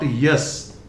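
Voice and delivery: yes with a full y and e; wrong ending. Shown as a demonstration. Teacher rejects a common error, wrong pronunciation. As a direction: say yes as a clear YES. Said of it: "It is not".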